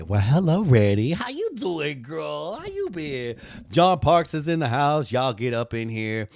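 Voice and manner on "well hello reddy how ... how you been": greeting. Shown as a demonstration. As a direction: call out a big welcome. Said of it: "I am going to say".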